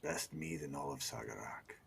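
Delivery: hushed, breathy whisper. Acted. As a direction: whisper it like a memory. Character reminisces in tavern.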